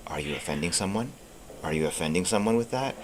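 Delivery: a hint of a cautious inner voice; inner censoring voice. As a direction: ask it quietly, like a nagging second thought. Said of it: "by another voice, which is almost like".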